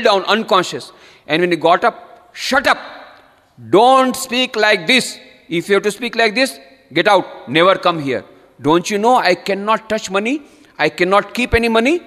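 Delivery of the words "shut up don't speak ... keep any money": angry rebuke. Retold or imitated. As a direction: drive him off in outrage. Ramakrishna rebukes the rich merchant.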